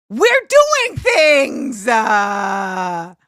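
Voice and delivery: big excited drawn-out call to the chat; hyped drawl. Real, not acted. Hyping the chat.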